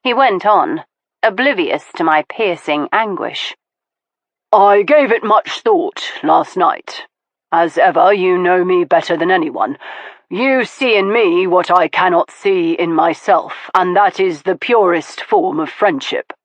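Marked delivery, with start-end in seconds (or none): 4.5-16.3 mean every word; Stoker, earnest and thoughtful. Acted. Stoker earnestly praising his friendship with Veronica.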